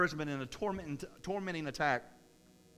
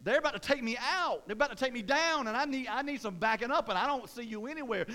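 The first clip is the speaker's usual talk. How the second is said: higher-pitched, mildly frantic plea; urgent complaint to God; 5 semitones higher than usual. Acted. David telling God they're coming after him, mildly panicked appeal. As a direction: plead for backup, pitch raised. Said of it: "that's what David's saying. He's like".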